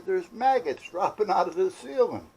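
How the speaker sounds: high, loud, alarmed report, mimicking his wife; panicked wife. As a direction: imitate her panicked phone call. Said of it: "you know, panicking".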